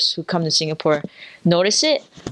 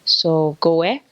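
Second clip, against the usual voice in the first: Singaporean accent; slower than usual. Shown as a demonstration. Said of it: "in Singlish, I'd say".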